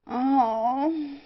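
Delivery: high moaning groan of despair. A narrator's reading. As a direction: groan as hope collapses. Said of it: "Auriol groaned".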